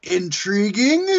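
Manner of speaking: slow, drawn-out theatrical delivery; mock-mysterious slow announcement; Goldust reading a tweet. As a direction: stretch each phrase, rising on the last word. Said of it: "Gold Dust, he put out a tweet, said".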